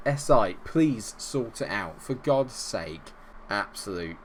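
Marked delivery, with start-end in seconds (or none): 0.1-3.1 exasperated plea. Real, not acted. Complaining at the game.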